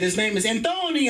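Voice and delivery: "Antonio" with a put-on accent; foreign accent. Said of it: "With an accent and shit".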